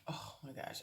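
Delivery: breathy whispered gasp of disbelief; hushed stunned aside; whispered oh my gosh. Retold or imitated. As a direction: whisper it in shock. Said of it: "I'm like".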